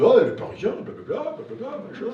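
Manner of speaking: high mocking chatter about the Parisian; mocking locals. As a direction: tease the newcomer in a high sing-song. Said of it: "Tout le monde".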